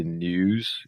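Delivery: news said "nyooz", sliding through an I; quiet British news with the I glide. Shown as a demonstration. Teacher repeats the British way: news with an I glide. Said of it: "fazendo o som do I aqui".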